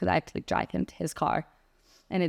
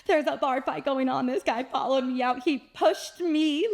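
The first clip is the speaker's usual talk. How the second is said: retold sobbing plea; 5 semitones higher than usual. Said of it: "I'm sobbing at this point".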